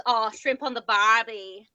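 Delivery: slow, stereotypical Aussie accent; ridiculous Australian accent. Shown as a demonstration. Showing friends the cliché anyone can do, ridiculous Australian accent. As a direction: put on a cliché Australian drawl. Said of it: "the really ridiculous".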